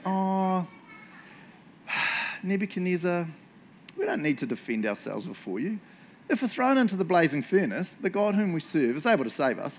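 sighing, pitying reply; gently sorry for the king; sad for him. Shown as a demonstration. Three friends answer the king, a touch sad for him. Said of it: "I always read it like they're kinda sad for him".

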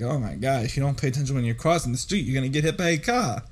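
put-on light Brooklyn accent, quick; a hint of a New York street voice. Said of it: "That was my Brooklyn accent".

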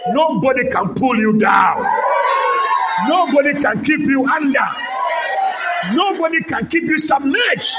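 emphatic declarations climbing in pitch; building church exhortation; full-force preaching. Acted. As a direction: proclaim it to the congregation.

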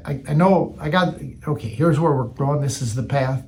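low, subdued, plodding self-parody; methodical and boring. Shown as a demonstration. Preacher contrasting himself with impetuous Peter, methodical and boring. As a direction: play yourself as the dull, careful planner. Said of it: "I'm methodical. I'm boring".

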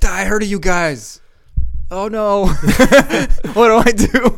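very high, loud comic squeal; hammed-up character voice. Riffing on the dancing elves story, hammed-up high character voice. Jokingly acts out elf encounter.

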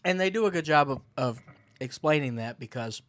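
talking with a mouthful; words round a bite of chocolate; mouth full. Real, not acted. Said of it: "sorry, I'm eating".

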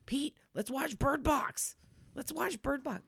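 pleading mock whine. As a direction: beg him like a kid. Voicing herself begging husband.

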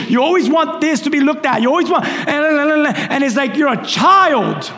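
brisk, lightly voiced rebuke from God; a quick, exasperated scolding from above; God rebuking Rigo.

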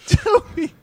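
loud, high call of a name. Acted. Actor correcting the name to Toby, loud call. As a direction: shout the name urgently.

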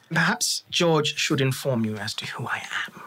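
lightly hushed elf voice; pointed half-whisper in character; whispery elf boss. Acted. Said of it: "The accent is very distinct".

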